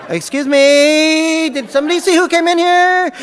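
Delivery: high, loud and laughing through the question; laughing mock alarm. Retelling finding the cooler, high laughing alarm. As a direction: call out to an empty room, half laughing.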